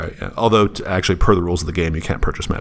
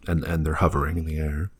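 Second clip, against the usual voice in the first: whispering; 2 semitones lower, 7 dB quieter than usual. Acted. GM hushes for eerie effect.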